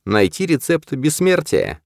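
медленно, с весомой паузой перед словами; произнести медленно и значительно; медленно, многозначительно. A narrator's reading. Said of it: "медленно произнёс". (медленно и многозначительно)

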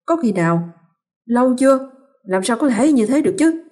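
mild disbelieving rush of questions; pressing questions. Acted. Father-in-law pressing his son, alarmed. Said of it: "hỏi dồn".

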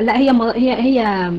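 ordinary delivery

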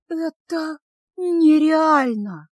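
drawn-out delighted disbelief; thrilled disbelief. A narrator's reading. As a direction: stretch it out, overwhelmed with joy. Girl thrilled by a gift.

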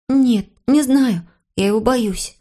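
lightly voiced scared child, drawn out; mild fear. A narrator's reading. Boy afraid of the dog. (с лёгким испугом, высоким голосом)

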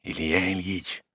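soft, slow, hesitant call; timid call. Acted. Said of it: "робкий зов".

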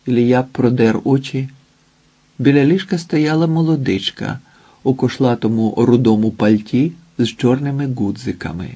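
ordinary delivery, nothing marked

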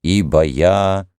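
slow, otherworldly divine voice; unearthly voice. Acted. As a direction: speak as a distant god. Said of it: "ответил неземной голос из храма".

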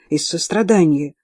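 plain reading voice

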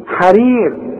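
حرير with a thin r before long ee; light ra. Shown as a demonstration. Teacher showing kasra rule, thin ra in حرير. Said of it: "كل راء في القرآن ما دام مكسورة".

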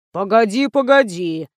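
lightly voiced old man muttering; a hint of an old man's mumble; mumbling pensioner. A narrator's reading. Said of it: "забубнил пенсионер".

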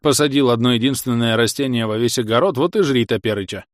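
nagging village granny; scolding old woman. Acted. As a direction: scold him like a cranky old wife. Old wife scolds husband. (ворчливая старуха)

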